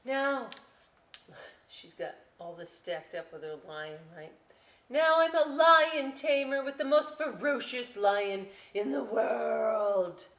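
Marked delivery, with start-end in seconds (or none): 4.9-10.3 louder, very slow dramatic boast; grand pretend. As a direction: announce it like a show.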